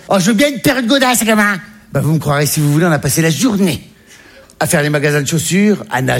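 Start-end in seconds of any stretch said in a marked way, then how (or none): 0.1-1.5 high, pleased mum; mock mum, pitched up; mother's voice. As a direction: answer like the greedy mum. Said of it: "qu'est-ce qui te ferait plaisir".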